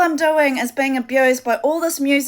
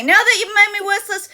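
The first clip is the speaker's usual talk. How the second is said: higher and louder, breaking into sob-laughter; real laugh-crying; 7 semitones higher, 4 dB louder than usual. Real, not acted. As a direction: laugh and cry at once through the pain. Distressed rant breaks into laugh-cry.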